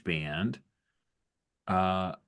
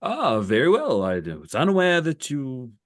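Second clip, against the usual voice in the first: higher-pitched, haughty captain conceding defeat; enemy captain's reaction; 3 semitones higher, 4 dB louder than usual. Acted. Captain answering the rebels who came to Abafa, haughty concession. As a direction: concede the planet with grand condescension. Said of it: "that's his reaction is".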